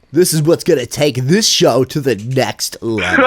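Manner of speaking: slow, laughing mock radio host; a hint of a buzzing electrolarynx voice. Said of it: "You sound like that guy with the little buzzer".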